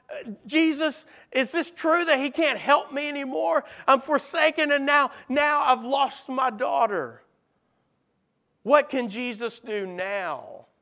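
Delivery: high, pleading lament; a desperate father begging for hope; forsaken despair. Acted. Jairus feels forsaken.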